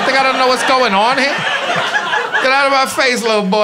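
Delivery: a hint of a fed-up grown man; mock anger. Telling off the teen.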